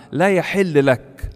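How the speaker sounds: each word weighed out slowly and firmly; slow grave rebuke. Acted. Preacher quoting John telling Herod the law, slow and grave. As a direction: lay down the prohibition word by word, unhurried. Quote repeated again.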